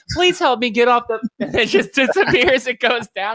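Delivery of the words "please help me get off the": high, loud, odd robotic plea; a robot begging as the doors close; pleading robot voice. Retold or imitated. Imitating the robot vanishing behind the doors, high and pleading. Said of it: "It's going".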